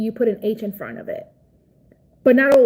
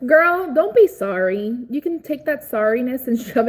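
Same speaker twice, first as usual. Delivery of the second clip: sassy scold; 2 semitones higher than usual. Real, not acted. Scolding a commenter.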